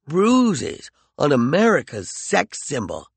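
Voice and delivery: slow, sneering mockery; mocking. McCoy taunts Peregrine about her image, slowly mocking. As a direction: drag it out to belittle her. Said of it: "McCoy said mockingly".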